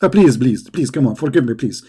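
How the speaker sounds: lightly voiced begging prophet; mock begging. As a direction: beg lightly, in mock pleading. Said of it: "Muhammad, he didn't accept".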